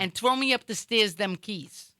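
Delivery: put-on slow Rhode Island accent with tangled word order; Woonsocket accent. Rhode Island local asking for keys, slow Woonsocket accent. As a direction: imitate a Woonsocket local, slowly. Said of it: "a whole different way they pronounce stuff".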